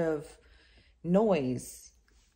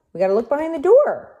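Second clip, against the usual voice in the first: excited; 7 semitones higher, 8 dB louder, faster than usual. Pretend. Excited reading to baby.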